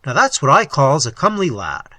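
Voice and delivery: a hint of a hearty lawman; chatty police officer. Officer pointing out a horseman, lightly voiced hearty lawman.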